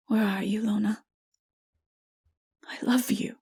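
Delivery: soft tender whisper to the dead. A narrator's reading. Narrator whispers to dead Lona, soft and tender. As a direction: breathe the words into her ear. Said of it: "whispered in its ear".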